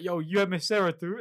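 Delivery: high, loud "you had Miss Sarah too?"; eager surprised classmate; excited question. Retold or imitated.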